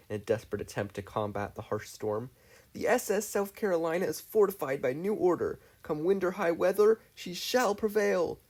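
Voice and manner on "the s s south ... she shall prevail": grand captain. Acted. Star rallying the crew in the storm, grandly. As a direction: declare it like a proud captain.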